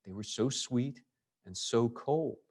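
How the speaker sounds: reading it as a tease. Pretend. Teacher rereads the lines as a teasing gloat to the plum owner. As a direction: rub it in a little, as if gloating. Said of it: "Or, or maybe".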